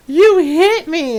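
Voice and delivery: high, drawn-out shocked gasp; mock surprise. Player mimics Solas punched by the Inquisitor, mock surprise. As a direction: imitate someone loudly aghast at being hit. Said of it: "so freaking surprised".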